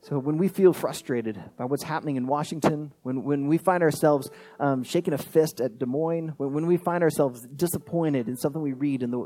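earnest spoken prayer, evenly paced. Real, not acted. Pastor praying to God for his people, earnest prayer.

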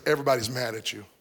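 lightly voiced tale-bearer, low and quick; a hint of a sly informant; insinuating troublemaker. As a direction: drop it low and fast, like passing on gossip. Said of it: "it will sound something like this".

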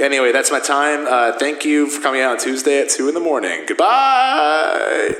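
hammy comedian bit at an open mic; playing a nervous stand-up comic. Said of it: "I'm gonna do my type five".

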